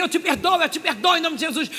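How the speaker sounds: loud, high insistent vow; fervent declaration. Retold or imitated. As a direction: declare forgiveness with fervour. Forcing forgiveness in prayer. (declaração fervorosa, alta e aguda)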